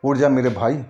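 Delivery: retold loud calling. Narrator calling his drunk sleeping friend to get up, mock loud call. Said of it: "आवाज़ लगाने जल लगा ज़ोर ज़ोर से".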